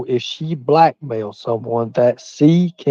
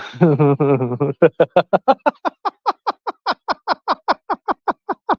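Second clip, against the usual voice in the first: long, high-pitched run of giggles; 5 semitones higher than usual. Real, not acted. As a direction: laugh on and on, climbing higher. Laughs at own slang confusion.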